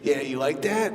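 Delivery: mock dirty talk. Husband talking dirty to his wife, mock seductive. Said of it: "we're like".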